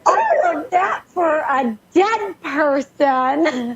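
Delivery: slow, wry deadpan quip; drawn out, teasing about the funeral cost; mock disbelief. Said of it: "She said".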